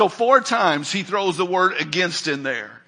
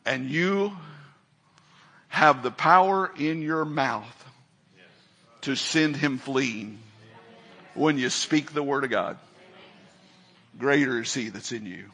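hushed earnest; 5 semitones lower, 6 dB quieter than usual. Acted. Preacher drops voice for emphasis.

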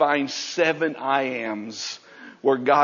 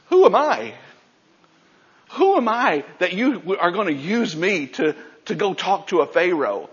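doubting Moses; 3 semitones higher than usual. Acted. Moses voiced doubting God.

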